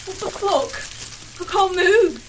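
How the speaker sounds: panicked. Acted. Realizing she is stuck.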